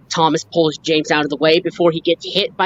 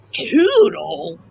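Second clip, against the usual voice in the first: Toodle sung out high and rising; 11 semitones higher than usual. Retold or imitated. Kid repeating Toodle, high rising call.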